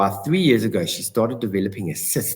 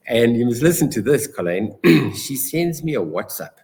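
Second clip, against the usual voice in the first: ordinary talk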